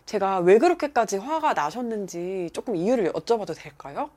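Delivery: mild-mannered, respectful inquiry; polite and composed. Retold or imitated. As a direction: ask gently, without any anger. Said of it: "정말 점잖게 저한테 전혀 화를 안 내고".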